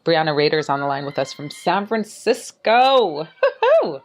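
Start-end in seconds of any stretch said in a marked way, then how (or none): 3.8-4.0 celebratory woo-hoo. Real, not acted. Host cheering guest's city.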